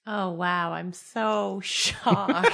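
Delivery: slow mock-shocked drawl; deadpan sarcasm, laughing; sarcastic. Real, not acted. Sarcastic reply to reveal.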